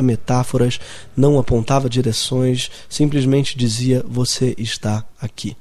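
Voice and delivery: calm measured poem recital; poem reading. Acted. Reads his poem aloud. (leitura calma de poema)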